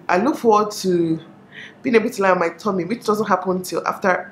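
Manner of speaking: talking while chewing gum; words round a wad of gum. Real, not acted. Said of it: "I have gum right now in my mouth".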